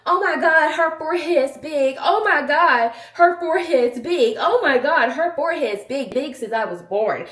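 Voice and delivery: hammed-up taunting trolls; a loud, high mock of the trolls. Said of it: "Only thing people can ever say about me is".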